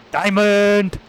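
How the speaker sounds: high, loud cry of joy; excited shout. Real, not acted. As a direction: yell it out in delight. Finds diamonds, calls out.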